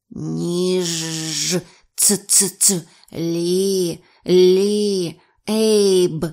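monotone, drawn-out creature calls; eerie creature voices. A narrator's reading. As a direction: mimic human words like sea creatures. Creatures mimic words they heard.

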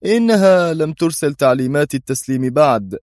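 an embittered president's grumble, pitched high; bitter. A narrator's reading. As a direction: let the bitterness push the pitch up. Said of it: "غمغم الرئيس في مرارة".

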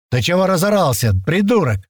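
high, annoyed shout back; angry retort. A narrator's reading. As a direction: snap back at the loudmouth. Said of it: "ответили ему с той стороны".

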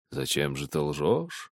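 low, slow, soft stern father; frowning father. A narrator's reading. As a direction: ask it heavily, frowning. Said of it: "спросил отец, нахмуриваясь". (хмуро и медленно)

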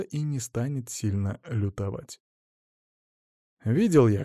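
usual speaking voice

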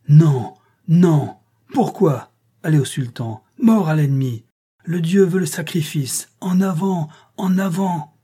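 hairy colossus howling at the crowd for blood; howling cry. A narrator's reading. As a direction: scream for the sacrifice like a wild giant. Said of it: "d'une voix hurlante, effrayante d'acuité".

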